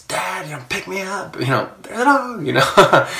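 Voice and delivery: high-pitched mock yell, not loud; imitating terrified child. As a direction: squeal like a frightened kid calling for Dad. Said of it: "she yells".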